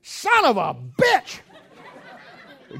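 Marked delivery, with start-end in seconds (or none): 0.0-1.4 loud and slow, drawn out; really loud. Retold or imitated. Preacher reads the verse aloud in the store, really loud. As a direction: boom it out slowly for the whole store. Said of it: "I said, really loud".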